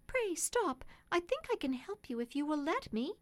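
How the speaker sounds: a well-bred lady stepping in; kind lady. A narrator's reading. The lady voiced in story.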